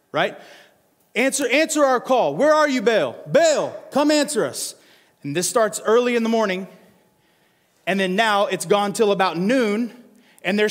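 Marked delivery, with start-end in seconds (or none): 1.2-4.8 desperate calling out. Acted. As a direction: call into an empty sky. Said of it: "They start calling out to Baal".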